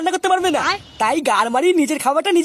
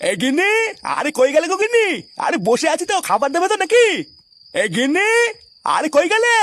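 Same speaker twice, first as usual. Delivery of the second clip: calling out loudly; 4 semitones higher than usual. Acted. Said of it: "এত চিল্লাচ্ছ কেন?".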